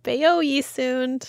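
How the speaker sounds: slow careful copy of "beyo ye soon"; trying the old phrase. Shown as a demonstration. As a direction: repeat "beyo ye soon" slowly, as if learning it.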